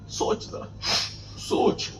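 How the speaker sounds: whispered plea to think; soft whispered urging; urgent whisper. Acted. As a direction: lean in and whisper the warning. Preacher urging youth to reflect.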